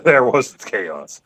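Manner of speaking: very slow, solemn "There was chaos"; slow dramatic intone. Acted. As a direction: draw it out like scripture.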